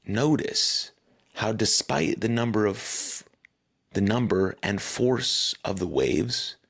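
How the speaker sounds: calm meditation voice with long pauses; guided meditation. Acted. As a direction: guide them gently through it, unhurried, pausing between phrases. Leads the guided urge-surfing meditation.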